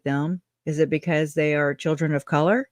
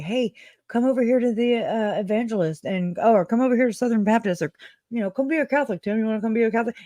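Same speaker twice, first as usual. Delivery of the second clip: lightly voiced, higher-pitched recruiter pitch; mock church recruiter; 4 semitones higher, faster than usual. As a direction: coax passers-by like a fair recruiter, pitched up. Imitating church recruiters at a fair.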